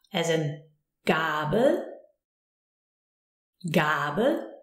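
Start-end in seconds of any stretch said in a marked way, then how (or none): 1.0-1.8 Gabel with a long, drawn-out A. Shown as a demonstration. Teacher showing learners the long A, Gabel with A held. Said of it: "We have a long A". 3.7-4.5 Gabel with a long, drawn-out A. Shown as a demonstration. Teacher showing learners the long A, Gabel with A held. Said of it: "We have a long A".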